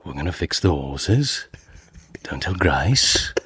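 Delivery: put-on hushed Birmingham gangster accent, lightly done; Peaky Blinders impression. Guest imitates a Peaky Blinders boss in Brummie accent. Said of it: "I do the Peaky Blinders sometimes".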